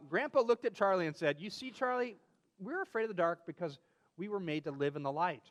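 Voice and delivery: put-on reading a children's story aloud. Reading a story about Grandpa and Charlie to a friend, storyteller voice. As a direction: tell it like a bedtime story.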